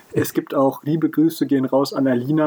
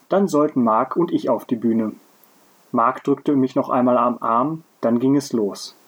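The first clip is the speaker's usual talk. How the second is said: measured read-aloud storytelling; story narration. A narrator's reading. Podcaster reading a story to co-host, narrating. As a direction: read the tale out in careful phrases.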